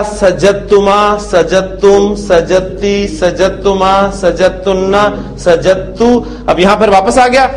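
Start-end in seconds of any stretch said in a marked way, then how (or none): 0.0-6.1 सजदतुमा, सजदतुम said with the द merged into a doubled त; merged dal. Shown as a demonstration. Teacher recites the merged conjugation for the class. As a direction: chant the forms with no dal sound. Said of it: "दाल pronounce नहीं करनी".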